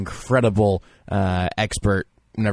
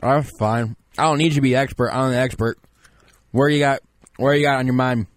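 lightly raised voice of a self-styled expert; pompous draft expert. Acted. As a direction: play a smug know-it-all analyst. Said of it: "you might be surprised to know that I sound this way".

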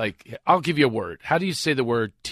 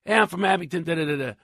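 put-on Philadelphia accent; 4 semitones higher, faster than usual. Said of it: "recognize the accent".

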